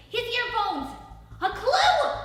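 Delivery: high, loud, bursting with a laugh; excited exclamation. Acted. Sasha finds her brother's earphones, thrilled cry. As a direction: shout the discovery with glee. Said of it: "Sasha exclaimed".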